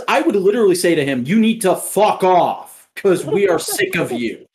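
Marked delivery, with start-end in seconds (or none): 1.3-4.5 slow, emphatic telling-off; mock dressing-down, drawn out; imagined telling-off. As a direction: lay out each word to a pest. Imagined telling off pest customer.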